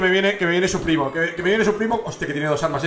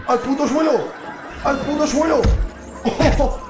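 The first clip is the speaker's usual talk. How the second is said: excited yell; 7 semitones higher than usual. Real, not acted. Knocks enemy down in fight.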